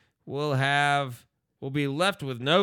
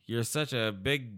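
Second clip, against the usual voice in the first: mock cooing girlfriend; 5 semitones lower, 5 dB quieter, slower than usual.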